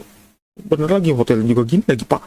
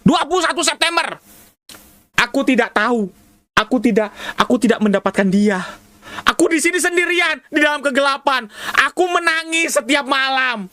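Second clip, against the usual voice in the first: mock weeping diary read; 3 semitones higher than usual. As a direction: read it like a lonely crying ghost. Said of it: "Dia nangisnya gitu".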